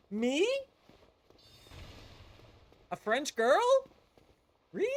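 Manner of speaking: high, loud coy disbelief; mock flattered gasp. Streamer swooning at being called a French girl, high and loud. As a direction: play it coy and flustered. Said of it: "And I was like".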